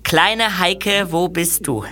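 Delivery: slow, solemn love-poem recital; reciting his poem. Acted. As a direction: declaim it like a devoted amateur poet. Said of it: "Dann lese ich Ihnen jetzt mein kleines Gedicht vor".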